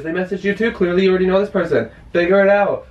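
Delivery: angry. Real, not acted. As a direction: throw it at him, fast and angry. Furious accusation.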